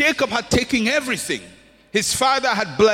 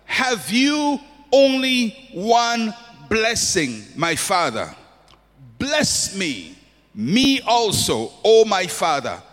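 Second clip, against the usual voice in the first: pleading Esau; slower than usual. Retold or imitated. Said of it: "And Esau said to his father".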